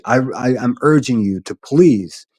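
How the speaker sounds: earnest, emphatic plea; real, insistent appeal; sincere urging. Real, not acted. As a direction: urge them firmly to stop. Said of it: "And this is sincerely".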